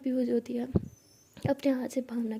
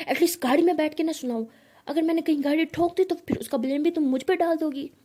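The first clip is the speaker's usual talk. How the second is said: irritated scolding; 3 semitones higher, 4 dB louder than usual. Acted. Driver scolding passenger during quarrel.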